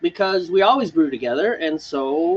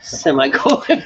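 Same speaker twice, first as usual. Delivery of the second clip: slow echo; 4 semitones lower than usual. Retold or imitated. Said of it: "Semicolon, brother".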